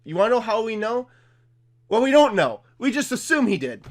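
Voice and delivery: hint of a sensational TV reporter; Fox News. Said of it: "That's like Fox News be like".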